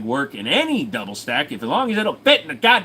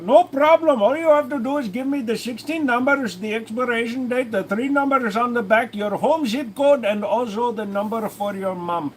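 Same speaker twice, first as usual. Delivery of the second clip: mock scam caller; 5 semitones higher than usual. Scam caller voice after "Rajesh.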